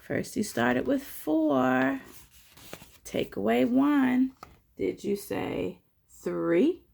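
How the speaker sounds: slow, animated storytime narration; picture-book read-aloud, key words punched; children's story reading. A narrator's reading. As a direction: read it out clearly for little listeners. Reads and quizzes children.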